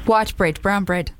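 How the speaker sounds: put-on lightly done South African accent; South African accent, half-hearted. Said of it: "This is my South African accent".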